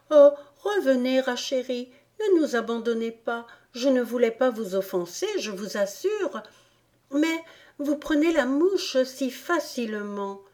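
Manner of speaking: put-on high, quick, begging girl voice; high, anxious little girl pleading; pleading Alice. A narrator's reading. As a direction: beg him to come back. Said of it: "gémit-elle".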